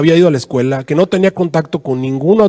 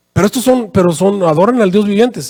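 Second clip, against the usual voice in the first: mildly protesting, pitched higher; 4 semitones higher than usual. Retold or imitated. Secuba objects to the angel in his dream, mildly protesting.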